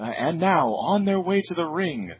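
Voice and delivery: drawn-out, rising ring announcer call. Retold or imitated. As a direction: boom it out like a wrestling announcer. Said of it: "So Lillian Garcia, uh, says".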